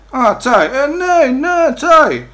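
high, loud "ah, tea, yes yes"; excited realization. Retold or imitated. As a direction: burst out with relief. (ενθουσιασμένα, πιο ψηλά και δυνατά)

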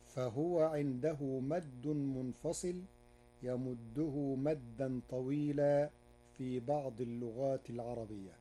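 usual speaking voice

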